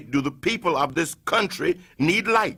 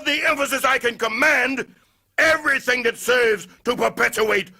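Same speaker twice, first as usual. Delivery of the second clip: higher, driving, fast in the name clauses; building denunciation; 6 semitones higher than usual. Acted. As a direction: build the charge to its peak.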